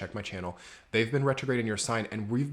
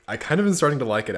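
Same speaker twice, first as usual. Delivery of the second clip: excited; 4 semitones higher, 9 dB louder, faster than usual. Real, not acted. Tastes the new drink.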